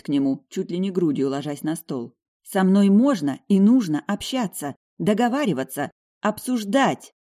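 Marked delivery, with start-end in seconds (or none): 2.4-7.1 higher, louder stern insistence; angrily. Acted. Heroine telling the duke how to treat her, angrily. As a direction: lay down the rules with anger. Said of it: "произношу гневно".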